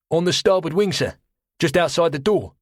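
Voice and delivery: quartermaster. Acted. Quartermaster answering, voiced high.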